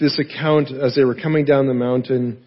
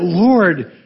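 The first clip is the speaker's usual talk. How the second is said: a measured, emphatic cry of awe; 4 semitones higher, 4 dB louder, much slower than usual. Acted. Preacher voicing what Peter should have cried out, awed proclamation. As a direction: slowly proclaim it with raised pitch. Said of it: "cried out".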